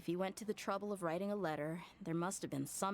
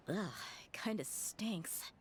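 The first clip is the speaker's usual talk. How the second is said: disgusted; 3 semitones higher, much slower than usual. Acted. Sniffing a smelly old box.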